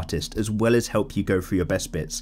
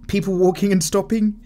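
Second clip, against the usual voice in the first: surprised; 9 semitones higher, 4 dB louder than usual. Real, not acted. Incredulous repeat of comment.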